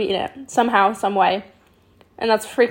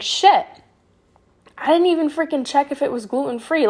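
panicked realization; 4 semitones higher than usual. Retold or imitated. Sudden realisation of gluten.

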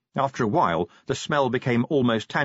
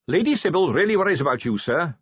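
Carrot earnestly concerned, quick and higher; broadcast concern; 7 semitones higher, 3 dB louder than usual. A narrator's reading. Carrot telling Vimes his wife worries, earnest concern. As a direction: press the worry on him kindly. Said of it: "Carrot broadcast concern".

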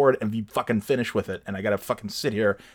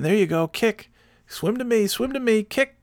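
much higher coaxing swim-coach voice; dad coaching a kid; 3 dB louder than usual. Retold or imitated. Dad coaching a kid to swim, high coaxing encouragement. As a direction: cheer a small kid on in the pool. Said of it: "he's saying".

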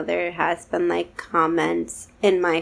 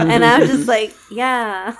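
laughing; 4 semitones higher, 5 dB louder than usual. Real, not acted. Laughing while quoting herself.

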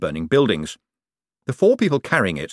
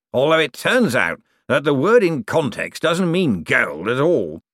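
ghostly necromancer, relishing his learning; 5 semitones higher than usual. A narrator's reading. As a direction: lecture with leisurely, lilting relish.

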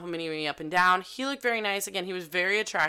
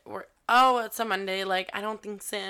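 playful refusal; 3 semitones higher than usual. Retold or imitated. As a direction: brush it off with a laugh. Refusing shot, retold.

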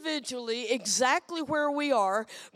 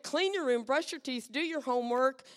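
higher, louder mock parent orders; nagging parent; 6 semitones higher, 4 dB louder than usual. Parent firing orders at a kid, mock nagging. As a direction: bark the chores like a fed-up parent. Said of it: "We repeat".

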